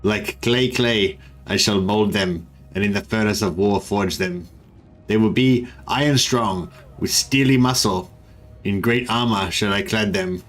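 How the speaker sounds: lightly voiced solemn warlord speech; space marine voice. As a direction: declaim it like a Skaven commander, understated. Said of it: "whether I was doing a space marine voice or a Skaven voice".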